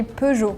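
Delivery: Peugeot said the French way, "puh-zhoh"; French pronunciation. Shown as a demonstration. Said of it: "in France, we say".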